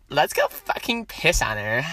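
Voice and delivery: lightly voiced mean girl; bratty girl voice. Egging a friend on against Becky, bratty girl voice. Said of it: "like, bratty girl voice".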